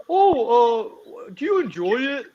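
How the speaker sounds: high, far-off mocking guy voice; mock eager guy. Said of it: "And then they're like".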